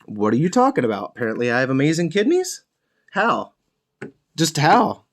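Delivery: mildly incredulous, rising questions; mock disbelief, lilting upward at the ends; retold shock. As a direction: replay your baffled reaction. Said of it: "I was shocked".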